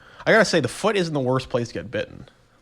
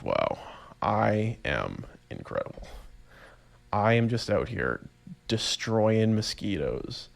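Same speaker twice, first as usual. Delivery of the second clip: smug pride; 2 semitones lower, 5 dB quieter, slower than usual. Retold or imitated. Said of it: "felt so proud of myself".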